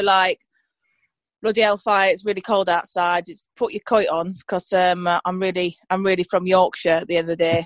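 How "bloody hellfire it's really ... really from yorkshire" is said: dad's Yorkshire. Retold or imitated. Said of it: "My dad would probably go".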